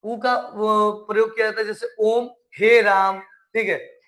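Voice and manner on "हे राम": हे राम called loud, last vowel stretched as if from afar; prolonged calling vowel. Shown as a demonstration. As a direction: call हे राम across a distance. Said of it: "दूर से बुलाने में इनका प्रयोग".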